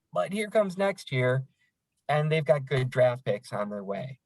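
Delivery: relaxed, easygoing reply; calmly defuse the upset fan; easy tone. Retold or imitated. Coworker calming a fired-up Red Wings fan, easy tone. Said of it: "she has an easy tone".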